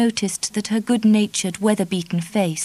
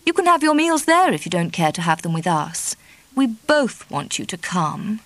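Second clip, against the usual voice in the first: insistent Dorothy. Acted. Dorothy urging Kitty to stay with her, pleading. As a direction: press the invitation eagerly.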